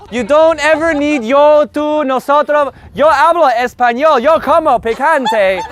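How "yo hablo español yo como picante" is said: mock gringo Spanish; gringo accent. Shown as a demonstration. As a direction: say it like a gringo learner. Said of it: "sound like a gringo".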